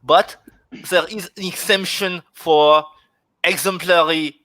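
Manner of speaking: put-on German accent. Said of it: "Arthur is trying to do a German accent".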